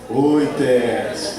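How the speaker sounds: slow, drawn-out group reply; congregation reply demo. Shown as a demonstration. Pastor models the audience's slow answer back. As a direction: stretch it like a whole room answering. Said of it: "Aí vocês repetem".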